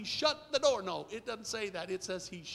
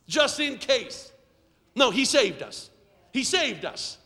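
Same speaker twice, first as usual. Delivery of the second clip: urgent, raised preacher's voice; forceful preaching; 5 semitones higher, 9 dB louder than usual. Acted. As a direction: press it on the congregation.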